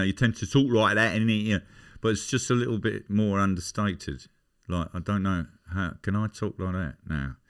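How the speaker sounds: understated London accent; lightly put-on London speech, conversational. Shown as a demonstration. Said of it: "if you're doing a London accent".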